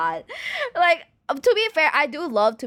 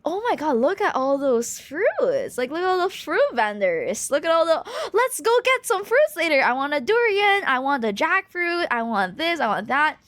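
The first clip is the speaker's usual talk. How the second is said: excited mom; 6 semitones higher than usual. Retold or imitated. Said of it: "she was like".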